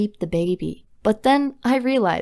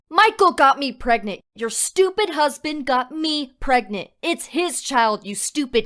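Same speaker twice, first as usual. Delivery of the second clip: higher-pitched outburst without full volume; mildly acted furious yell; mock scream; 5 semitones higher than usual. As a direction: blurt it out like you've had enough. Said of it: "I screamed".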